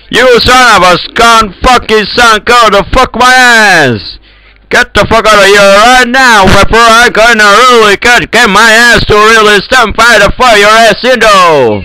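angry rant. Real, not acted. Ranting, ordering someone to get out. (angry, high-pitched tirade)

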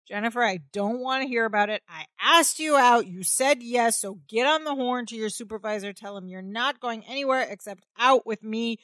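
mock-assertive orders, slowing on the final command. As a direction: lay down the law, lightly imitated. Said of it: "Larry tells her very assertively".

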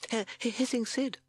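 high, hesitant toad voice. A narrator's reading. Timid Toad answering Bat, high stammer. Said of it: "said Toad".

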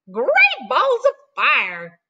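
slow drawn-out exclamation; mild exclaiming goose. Acted. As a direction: stretch it out lightly. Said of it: "cried the goose".

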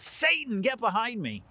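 stern rebuke. Acted. Jesus rebuking Peter before the disciples, loud stern reprimand. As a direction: cut him down with a firm rebuke. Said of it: "he rebuked Peter".

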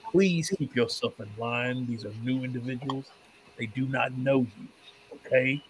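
measured, polite scolding in character; lightly voiced trader reining in his partner; courteous merchant character.

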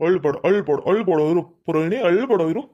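low, cooing comfort; soothing. Acted. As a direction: hush a crying wife tenderly. Husband consoles his crying wife.

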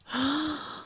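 quick, high intake of breath; shocked gasp. Pretend. Player reacting to drama between her Sims, shocked gasp.

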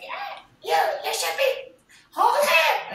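high, loud imitated yelling; screaming directions. Mocking own shouting at a wedding couple, screaming. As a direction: shout instructions in a shrieky self-mocking yell. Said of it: "I'm, like, screaming".

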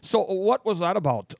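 slow, drawn-out Minnesotan; Minnesota accent. Retold or imitated. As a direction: imitate a Minnesotan, rounding out the vowels. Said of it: "Minnesota people also say".

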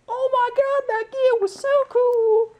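very high, slow mock-gushing squeal; gushing fan. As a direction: gush like an awestruck fan. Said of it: "for anyone that was like".

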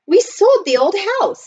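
high, loud, eager news; excited girl's announcement. A narrator's reading. Sister tells her brother the news, excitedly.

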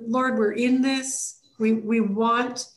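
a short spoken prayer, slowed down; quick prayer. Shown as a demonstration. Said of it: "just to say".

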